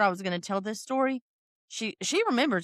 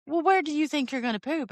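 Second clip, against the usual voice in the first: higher, incredulous mom voice; mock stern mom; 9 semitones higher than usual. Mother asks her child where she'll poop, in a high incredulous voice. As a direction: play the exasperated mother.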